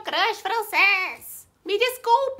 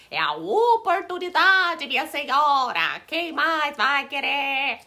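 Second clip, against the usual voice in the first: street vendor hawking. Acted. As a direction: call out wares to passengers. Hawking snacks on the train.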